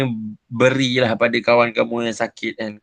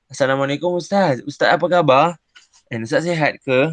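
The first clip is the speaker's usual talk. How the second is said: polite greeting. Shown as a demonstration. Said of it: "bahasa yang baik, lembut dan sopan".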